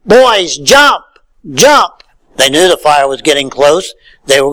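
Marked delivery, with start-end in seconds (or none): 0.0-2.0 retold yelling. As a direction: imitate a crowd yelling, higher pitched. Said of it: "everybody kept yelling".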